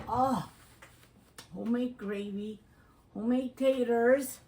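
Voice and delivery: loud, delighted gush; excited gush. Real, not acted. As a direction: gush over the food. Excited over food.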